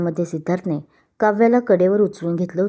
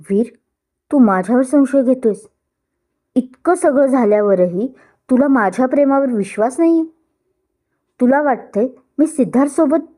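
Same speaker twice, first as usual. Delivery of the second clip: hurt; 5 semitones higher, 3 dB louder than usual. Acted. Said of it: "तिचे शब्द अडकले".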